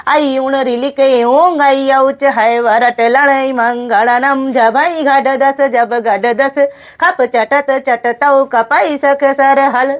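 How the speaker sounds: recited together. Shown as a demonstration. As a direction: chant the whole sutra in one flowing run. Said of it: "देखिए, एक साथ में ऐसे पढ़िए।".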